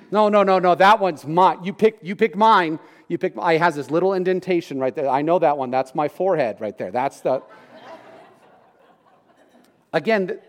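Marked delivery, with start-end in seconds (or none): 0.1-7.4 lightly voiced squabbling child; mock kid squabble. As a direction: act the kid claiming his stick. Kids fighting over dowel.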